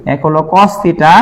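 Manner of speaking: slow, careful cos theta; slow dictation. Shown as a demonstration. Teacher slowly dictating cos theta to class. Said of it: "slow dictation".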